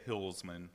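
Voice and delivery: "Hillsman" with the first part like a hill you climb; slow, loud "Hillsman", short i as in "hill"; hill-like pronunciation. Shown as a demonstration. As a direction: say "Hillsman" starting exactly like "hill". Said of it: "like a hill that you walk up".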